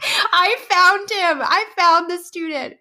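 high, excited retold outburst; triumphant discovery. Teacher finally spotting the whispering student, excited. Acts out catching the culprit.

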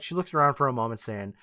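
normal talking voice

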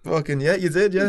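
emphatic. Retold or imitated. Emphatic retold reply to Ian.

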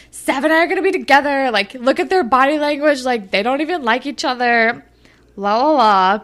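high, fast, bratty singsong; mocking Jenna. Recapping Jenna's boast to Shantae, high and bratty. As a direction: mimic a delusional teen girl. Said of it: "she's like".

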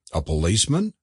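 low start, rising questioning tune; querying. A narrator's reading. Antiquarian hearing of a caller, querying. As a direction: echo it as a puzzled question. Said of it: "queried the antiquarian".

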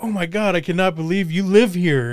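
high, excited retold disbelief; amazed fan. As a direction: imitate a listener amazed to meet you.

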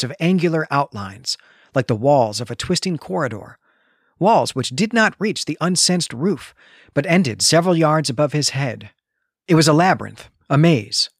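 steady storytelling read, slowish start; reading aloud. Shown as a demonstration. Podcaster reading a creepy book passage to his cohost. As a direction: let the eerie maze unfold.

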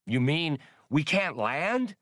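drawn-out incredulous squeak; Spray's dismay. Acted. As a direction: let it hang in stunned surprise. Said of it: "Spray blinked".

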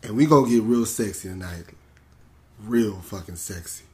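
put-on smooth, sexy announcer; sexy host voice. Podcast host opening the freak episode, in a playful sexy voice. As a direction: ease into a mock-seductive radio voice. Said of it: "I don't even know why I'm talking like this".

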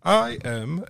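high, stiff robot voice. Retold or imitated. Host mimics a friend's robot phone voice, high and stiff. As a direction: speak like a computer, word by word. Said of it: "talking like that fucking robot comedian".

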